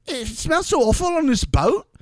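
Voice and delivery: high mimicking whine; Chloe. Host retelling contestant's misery on the boat, high-pitched impersonation. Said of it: "And she's like".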